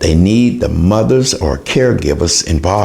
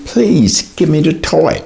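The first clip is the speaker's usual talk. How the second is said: pitched higher, a patient, loving request for the toy; gentle coaxing; 6 semitones higher than usual. Retold or imitated. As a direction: coax the child kindly, like a calm mother. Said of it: "this positive type of discipline".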